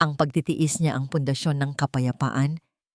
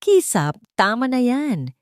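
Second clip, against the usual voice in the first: firm rebuke; 6 semitones higher, 4 dB louder, slower than usual. Acted. Liwayway finally stands up.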